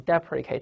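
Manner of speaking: "deprecate" read DEP-ri-kate; pronunciation model. Shown as a demonstration. Teacher pointing out how it is read, "deprecate" as DEP-ri-kate. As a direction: say "deprecate" with short first vowel and hard k. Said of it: "你注意它的读音".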